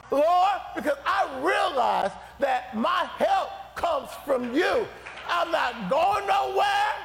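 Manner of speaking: persistent prayer. Pretend. Believer refusing to quit praying, rising determined cry. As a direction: vow you will not leave until He answers. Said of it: "you gotta get to the place where you say".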